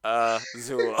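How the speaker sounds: stiff Azul said as ah-ZOO, breaking into a laugh; robotic American, laughing. Pretend. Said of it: "say it as American and robotic as I could".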